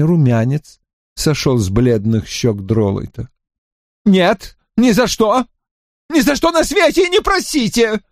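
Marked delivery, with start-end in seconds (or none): 4.0-8.0 high, panicked protest; pleading Drawlight. A narrator's reading. Drawlight excusing himself to Lascelles, high and panicked. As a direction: beg to be believed.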